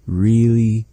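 a firm, loud Really; emphatic. Shown as a demonstration. Teacher translating word.

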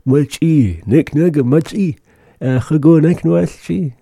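high, coaxing voice offering food. Acted. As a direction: coax them to take the machi, pitched high.

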